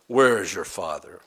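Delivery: sarcastic question, pitched low; low, mildly mocking challenge. Pharisees challenge Jesus about his Father, sarcastic. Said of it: "they said to him sarcastically".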